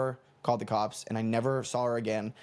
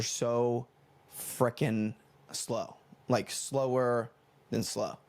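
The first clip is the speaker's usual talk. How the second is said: very slow, stretched-out words; exaggeratedly slow emphasis; drawn-out slowness; much slower than usual. Shown as a demonstration. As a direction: drag each word to show the slowness. Stretches words to mimic slow buses.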